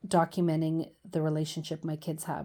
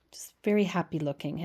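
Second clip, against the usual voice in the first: a little whispered comment; 2 semitones lower, faster than usual. Real, not acted. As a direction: whisper it to the viewer. Aside while showing a page.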